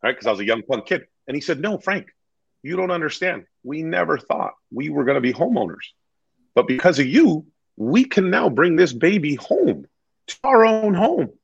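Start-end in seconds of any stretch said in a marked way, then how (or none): 1.6-11.3 higher, earnest retold thanks; heartfelt gratitude. Client thanking agent for first home, heartfelt. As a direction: build into an emotional thank-you.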